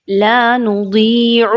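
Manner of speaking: لا نضیع slowly with a heavy, full daad. Shown as a demonstration. Teacher modelling a careful daad, slowly. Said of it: "اس کو اچھے طریقے سے پڑھیے".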